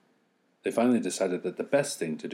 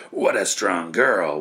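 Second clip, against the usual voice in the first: slow, louder exhausted wind; tired whirlwind; 7 dB louder, slower than usual. Acted. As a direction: marvel while spent. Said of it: "one of them said".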